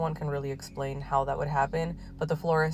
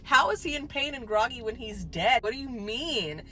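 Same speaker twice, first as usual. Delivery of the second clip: much higher, louder stunned cry, very slow at the start; incredulous shout that gets calmer by the end; shocked disbelief; 8 semitones higher, 8 dB louder than usual. Retold or imitated. Family shocked at doctor.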